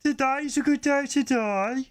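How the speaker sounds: Birmingham Klingon. Pretend. Co-host showing off a Birmingham Klingon, mock Brummie accent. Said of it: "Birmingham Klingon is fucking brilliant".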